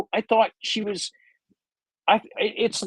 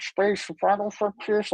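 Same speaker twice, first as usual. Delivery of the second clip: slow Shatner impression; 3 semitones higher, 3 dB quieter, slower than usual. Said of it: "can you imagine William Shatner".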